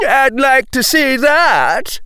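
high, loud, slow mocking jeer. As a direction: taunt the boy. Jeering voice in court.

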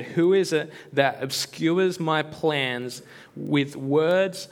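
slow, solemn God speaking from the storm. Acted. Preacher reads God's words to Job, slow and solemn. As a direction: read God's challenge slowly, with gravity. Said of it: "Then the Lord spoke to Job out of the storm".

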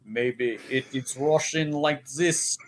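slow, badly faked tough Russian; tougher Russian accent. Shown as a demonstration. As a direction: try a tougher movie Russian. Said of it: "maybe it's more tougher".

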